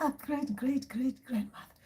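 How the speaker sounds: lightly acted fond hello; delighted grandchild. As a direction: greet the ancestor with gentle mock awe. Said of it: "And I'll be like".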